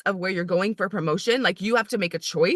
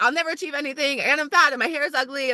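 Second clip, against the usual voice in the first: mock despair; 6 semitones higher than usual. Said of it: "literally, like".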